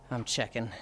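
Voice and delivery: barely voiced, very soft mutter; under the breath. Real, not acted. Checking how much time is left, muttered. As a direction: breathe it out softly, almost whispered. Muttered, then said again aloud.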